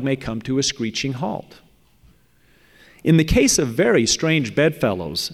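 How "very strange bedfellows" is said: "very" leaned on with extra emphasis; pointed emphasis on "very" before the words that follow; stress on very. Real, not acted. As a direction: punch the word "very". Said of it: "I emphasize the word very".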